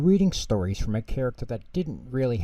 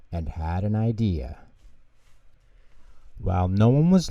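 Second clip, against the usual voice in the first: put-on lively children's storybook narration; reading to children. A narrator's reading. Narrator reading Pingu to children, lively storytelling. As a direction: read it like a bedtime story for kids.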